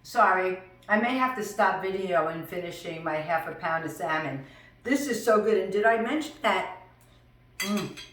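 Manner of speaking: talking while chewing; mouth full. Real, not acted. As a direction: speak around a mouthful of salmon. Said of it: "never to talk with my mouth full".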